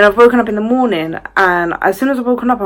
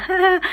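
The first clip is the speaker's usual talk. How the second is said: imitated giggle; 12 semitones higher than usual. Mum imitates her fixated son giggling, high mock laugh. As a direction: imitate a toddler's little laugh. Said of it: "He's laughing".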